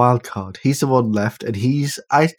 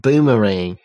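mock Australian accent; 4 dB louder, slower than usual.

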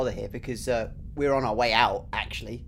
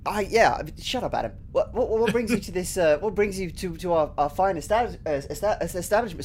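stammering nervous host; stage fright; 4 semitones higher than usual. Acted. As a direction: trip over your words, flustered. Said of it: "Sorry, I'm nervous".

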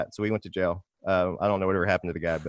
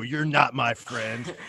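mock deadpan; 4 semitones higher, much slower than usual. Mocking the awkward exit.

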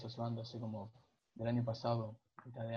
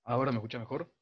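speaking up louder; to someone hard of hearing; 5 dB louder, faster than usual. Real, not acted. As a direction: raise the voice so they hear. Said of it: "habla más fuerte porque se escucha".

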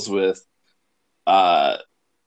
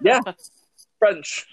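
talking while chewing; words round a bite of food; mouth full; 9 semitones higher than usual. Real, not acted. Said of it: "Sorry, I'm eating".

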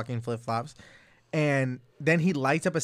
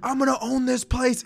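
put-on drunk boast; 9 semitones higher, 4 dB louder than usual. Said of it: "he's like".

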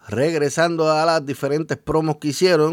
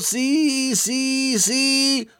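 high-pitched, excited cheering; excited yes yes yes; 8 semitones higher, much slower than usual. Acted. Finisher lands, commentator cheers.

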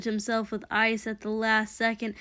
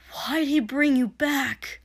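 high, loud, desperate question; heated, pressing question; urgent demand; 4 semitones higher, 5 dB louder than usual. Acted. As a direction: cry out for an answer. Hero demands answers mid-fight.

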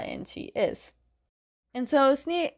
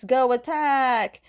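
drawn-out, higher call to charge; mock battle cry; 4 semitones higher, 4 dB louder, much slower than usual. Zuko to those not stuck in tanks, mock battle cry. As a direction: send the troops in with a long half-shout. Retold leader ordering an attack.

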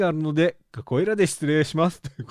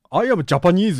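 bad English with every vowel stressed; each vowel stressed hard in Japanese English; vowel-heavy Japanese English; 7 dB louder, slower than usual. Shown as a demonstration. Host mocks own Japanese-accented English: vowels stressed. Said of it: "今ちょっと母音を、母音を強調しながら言ってみましたけど".

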